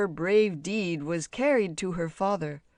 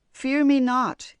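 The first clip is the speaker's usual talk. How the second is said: slow, loud monster, falling on me; a calm lake monster, slow and loud; 7 semitones higher, 8 dB louder than usual. A narrator's reading. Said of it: "he repeated".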